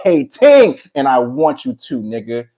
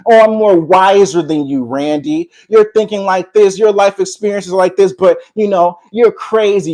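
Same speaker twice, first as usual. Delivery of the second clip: mocking superior voice; 2 semitones higher than usual. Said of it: "moral superiority".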